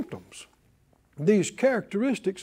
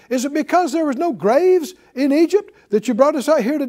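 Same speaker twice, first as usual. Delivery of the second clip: higher, mocking complaint; sarcastic; 6 semitones higher than usual. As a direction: sneer it back at Moses. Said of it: "they spoke sarcastically".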